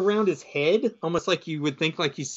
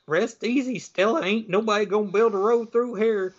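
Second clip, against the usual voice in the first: higher-pitched folksy vow; country old-timer; 5 semitones higher than usual. Retold or imitated. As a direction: voice old Cletus, pitched up and rustic. Old Cletus vows at a grave.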